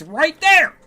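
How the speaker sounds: high, loud disbelieving shout; incredulous yell. Real, not acted. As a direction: rant at the game in disbelief. Arguing with game pathfinding.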